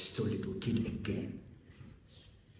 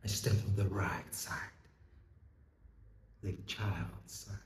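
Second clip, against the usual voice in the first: much softer, solemn statement; hushed conviction; 3 semitones lower, 12 dB quieter than usual. Acted. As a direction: drop low and quiet, let it sink in. Same claim, then hushed.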